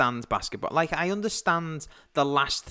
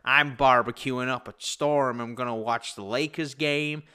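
mock-American stereotype voice; imitated American accent. British host teasing his American co-host, parody American accent. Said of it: "Try to say it like I say it".

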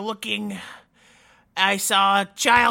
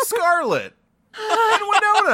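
character voice; 12 semitones higher, 3 dB louder than usual. Acted. Chipper announcing names.

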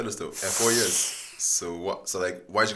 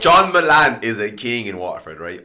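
loud, proud Irish accent; Irish accent coming out; 6 dB louder than usual. Real, not acted. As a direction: let the Irish accent slip out. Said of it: "hear the Irish accent coming out".

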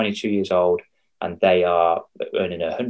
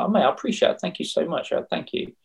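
gushing thanks; 4 semitones higher, 4 dB quieter than usual. Retold or imitated.

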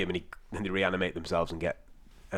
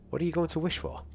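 son's voice; 12 semitones higher than usual. A narrator's reading. Son asks father, voiced higher.

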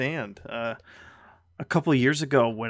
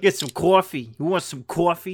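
put-on Boston accent; 3 semitones higher than usual. Friend offers coffee, mock Boston accent. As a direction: joke Boston with exaggerated coffee vowel. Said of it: "can you do a Boston accent".

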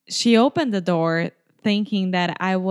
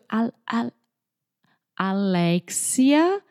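confused; slower than usual. Retold or imitated. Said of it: "she wasn't understanding".

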